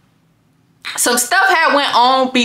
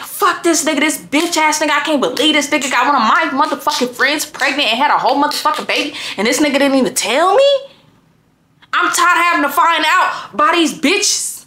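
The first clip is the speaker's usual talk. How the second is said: retold angry rant, pitched a bit higher; pissed-off cussing; 4 semitones higher than usual. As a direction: re-enact pacing around cussing him out. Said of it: "I'm walking around cussing".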